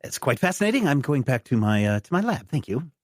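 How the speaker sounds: high, fluttery academic voice; a distracted scientist excusing himself; the doctor leaving for his lab, high and fussy. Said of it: "the doctor is like".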